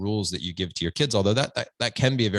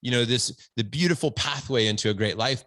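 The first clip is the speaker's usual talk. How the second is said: lightly hammed-up self-satisfied dad, a bit higher; mock preachy dad; 4 semitones higher than usual. Dad mocking himself lecturing his son, smug and a bit higher. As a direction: play the smug dad showing off his wisdom. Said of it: "my ego trip for being a great dad".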